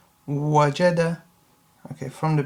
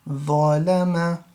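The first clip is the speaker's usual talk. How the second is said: slow reading. Shown as a demonstration. Teacher modelling ظلم slowly for the class.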